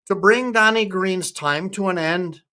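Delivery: put-on lightly Scottish-accented ballad line; attempted Scottish accent. Retrying the ballad for chat, attempted Scottish accent. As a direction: recite it with an amateur Scottish lilt. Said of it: "I'm gonna try and be Scottish".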